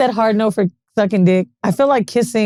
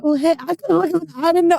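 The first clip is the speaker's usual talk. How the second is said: higher-pitched, hesitant little hello; awkward mock greeting; 6 semitones higher than usual. Greeting the man she hugged, high and awkward. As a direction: imitate fumbling through an awkward hug. Awkward hug with stranger, retold.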